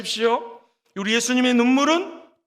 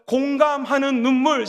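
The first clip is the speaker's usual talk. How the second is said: slow, deliberate call to repeat; slow model phrase. Shown as a demonstration. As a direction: lead the congregation slowly. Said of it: "한번 따라해볼까요?".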